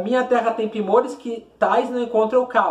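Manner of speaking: measured, rhythmic declamation; poem recitation. Shown as a demonstration. Teacher reading the poem aloud to students, declaiming.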